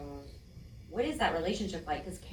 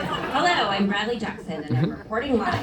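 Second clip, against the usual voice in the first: anchor voice; 3 semitones higher, 6 dB louder than usual. Retold or imitated. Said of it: "holding it in front of my face like this".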